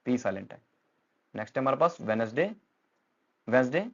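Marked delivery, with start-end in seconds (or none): 2.0-2.5 "वेडनेसडे" without the first d, as WEN-es-day; silent D. Shown as a demonstration. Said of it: "डी silent है". 3.5-3.9 "वेडनेसडे" as WENS-day, first d dropped; silent D. Shown as a demonstration. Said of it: "डी silent है".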